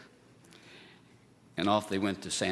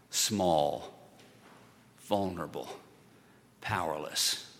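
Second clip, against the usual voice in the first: softer, lower, slow single words; quiet emphasis; 5 semitones lower, 5 dB quieter, slower than usual. Shown as a demonstration. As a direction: let each word fall small and fragile. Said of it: "the emphasizing words are little".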